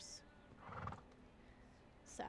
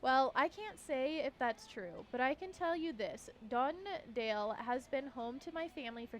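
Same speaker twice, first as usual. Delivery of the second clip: formal speech. Acted. Reads the mayor's speech.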